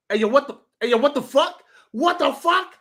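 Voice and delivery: mock-stunned, pitch climbing with each repeat; retold disbelief. Fan reliving Lamar Jackson's fumble, retold disbelief. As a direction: build from puzzled to high-pitched disbelief. Retelling his reaction to the fumble.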